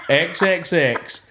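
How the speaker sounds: slow, words breaking into laughter; laughing through it. Real, not acted. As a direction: try to read it out but keep cracking up. Reading grandpa's X's, cracking up.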